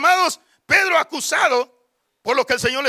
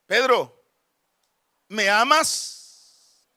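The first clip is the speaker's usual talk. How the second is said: Jesus; 2 semitones lower, much slower than usual. Acted. Risen Lord first asking his disciple, measured question. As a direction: ask it slowly and gently, leaving space. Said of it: "Y le dice".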